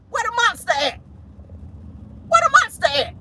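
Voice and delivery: very high-pitched mock-frightened question; hammed-up high-voiced alarm. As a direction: squeal it as if hunting for a monster. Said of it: "screaming like he's in a haunted house".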